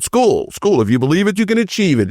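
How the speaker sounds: mock motivational chant, swinging in pitch; robotic pep-talk parody; boring speakers. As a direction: imitate dull convention speakers reciting slogans. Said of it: "they were so boring".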